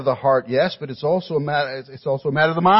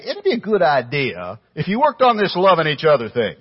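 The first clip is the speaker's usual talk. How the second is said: mock casual advice; 3 semitones higher than usual. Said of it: "He did not say".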